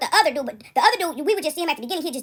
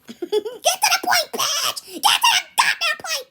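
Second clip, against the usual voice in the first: much higher, laughing mock demand; impatient heckler; 12 semitones higher, slower than usual. Teller voicing viewers telling her to hurry, high laughing mock. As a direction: play the audience rushing her, laughing.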